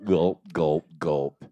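low gulps spoken as words; mimed gulping. Acted. Storyteller miming drinking a big glass of water, mimed gulping. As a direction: say each gulp low and separate.

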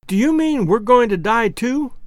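put-on high, frightened little girl holding back sobs; a child asking if she will die; tearful child. A narrator's reading. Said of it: "checking her sobs".

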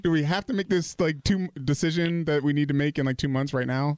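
high, exasperated plea; husband mock-pleads during the game-winning play, high. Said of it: "I was like".

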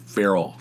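"feral" said with an "eh" first vowel, like "fair-ul"; pronunciation of feral. Shown as a demonstration. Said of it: "Is that how you pronounce it?".

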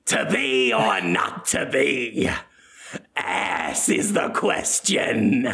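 slow, mock-grand Shakespeare recital; Willem Dafoe reciting. Willem reciting Shakespeare behind the curtain, slow mock-grand. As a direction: declaim it slowly like a ham actor. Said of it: "you hear Willem say".

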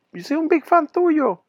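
lightly voiced gushing woman; fan gushing. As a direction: gush like a starstruck fan. Quoting the pornstar.

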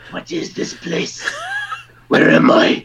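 hushed mock bewilderment, slow; bewildered. Newcomer baffled in a Montreal Tim Hortons, hushed and bewildered. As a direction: whisper it like you're lost in a strange land. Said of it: "And you're like".

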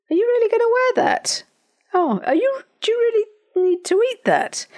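very high-pitched, put-on disapproving voice; critical naysayer. Naysayer undermining a relative's confidence, high mock criticism. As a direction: do a naysayer picking at someone in a squeaky high voice. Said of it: "criticizing you maybe, doing their level best".

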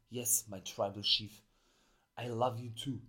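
mock-grovel to the chief like a bootlicker; sleazy suck-up. Manager fawning over his tribal chief, mild mock suck-up. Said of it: "wie Heyman so diesen Schmierlappen spielt".

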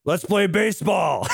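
high mock-cheery shout; hammed-up excited proposal; gleeful announcement. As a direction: call it out high like a playful invitation. Retold gleeful reply of character.

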